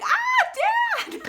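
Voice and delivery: very high, loud delighted shriek; surprised shout. Real, not acted. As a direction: shout at spotting your dad at the end of the line. Surprised to see dad.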